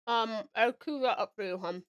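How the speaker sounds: talking with chocolate in mouth; mouth full. Real, not acted. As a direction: talk through a mouthful of chocolate. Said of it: "I have chocolate in my mouth".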